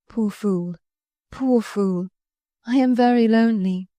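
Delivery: a touch of tearful pleading; mild sobbing. Acted.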